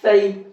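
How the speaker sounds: careful lisped th at the start of ثئی; model pronunciation. Shown as a demonstration. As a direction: show pupils ثئی as "thai", th as in "thin". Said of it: "کیسے پڑھ رہا ہوں میں اس کو؟".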